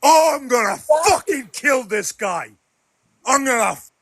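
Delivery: raging shout, breaking off; furious shout. Real, not acted. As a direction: yell the threat out in real fury. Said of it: "Never heard him this mad".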